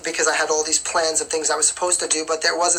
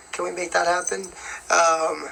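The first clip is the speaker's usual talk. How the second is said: yawning. Real, not acted. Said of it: "you're making me yawn".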